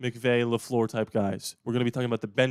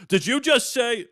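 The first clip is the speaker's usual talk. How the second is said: high, loud mock disbelief; imitating a fan who can't believe it; incredulous fan; 11 semitones higher, 6 dB louder, slower than usual. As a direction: squeal it like an outraged fan. Mocking fans' reaction.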